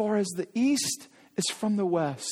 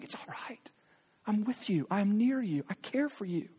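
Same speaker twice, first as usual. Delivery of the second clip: soft, hushed reassurance, starting in a whisper; tender comfort; 6 dB quieter than usual. Pretend. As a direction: comfort someone who just fell. God comforting the fallen.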